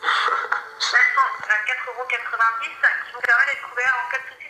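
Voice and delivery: tinny phone call voice; over the phone. Real, not acted. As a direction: voice through a phone line. Phone agent speaking.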